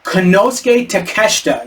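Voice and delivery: Konosuke Takeshita sounded out with care; slow, careful name. Real, not acted. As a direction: take the tricky name slowly. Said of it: "You gotta say it slow".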